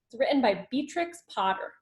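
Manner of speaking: ordinary delivery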